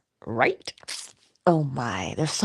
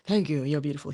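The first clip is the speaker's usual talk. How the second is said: a famous singer; faster than usual. Retold or imitated. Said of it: "He was imitating Elvis".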